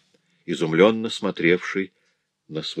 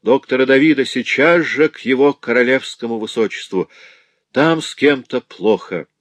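higher, louder call through the doors; shouting for help; 6 semitones higher, 5 dB louder than usual. A narrator's reading. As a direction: call the doctor urgently from the doorway. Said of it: "закричал". (громкий крик слуге за дверью)

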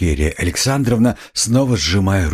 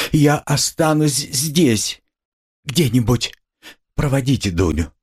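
high, slow, pleading mother; near despair; 8 semitones higher than usual. A narrator's reading. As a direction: beg to stay, pitched high and drawn out. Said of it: "чуть не в отчаянии".

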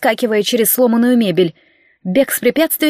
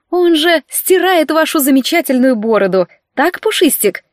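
coaxing; 5 semitones higher than usual. Acted. С улыбкой уговаривает енота.

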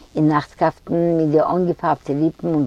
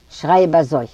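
plain reading voice

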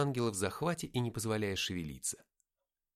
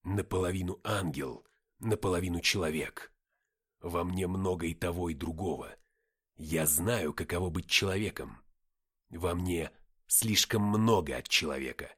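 low, measured, weighty voice; composed low character voice; calm reply; 3 semitones lower, 3 dB louder than usual. A narrator's reading. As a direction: explain calmly, with heavy deliberate words. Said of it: "спокойно ответил Деймос".

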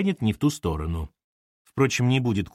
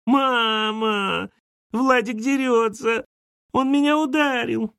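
put-on high, complaining child's shout; a little girl tattling tearfully; upset little girl; 11 semitones higher, slower than usual. A narrator's reading. Girl runs to her mother complaining, high whiny shout.

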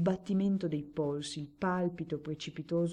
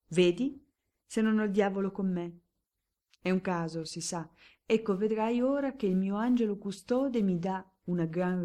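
più alto e forte, trionfante; esultanza; 3 semitones higher, 4 dB louder than usual. Acted. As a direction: gongola per la vincita. Barone esulta alla roulette. (barone trionfante e beffardo)

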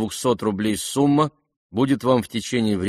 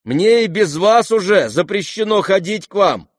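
much higher, louder call; calling after her; 10 semitones higher, 6 dB louder than usual. Acted. The prince calling after the departing Lizaveta. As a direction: shout it after her as she leaves. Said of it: "крикнул князь ей вслед".

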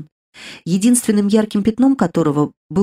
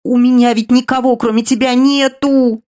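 louder, higher, a tearful drawn-out plea; drawn-out sobbing wail; 5 semitones higher, 4 dB louder than usual. Acted. Younger sister sobbing over her dying sister, drawn-out tearful wail. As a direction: wail it through tears, stretching the last word. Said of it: "И всхлип, а потом протяжный".

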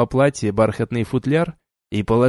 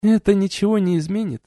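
weary sighing reply; sighing duchess; 8 semitones higher than usual. A narrator's reading. Duchess sighing at the warrior's oath, weary. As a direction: let it out on a sigh. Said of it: "вздохнула герцогиня".

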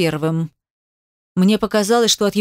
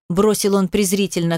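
plain reading voice

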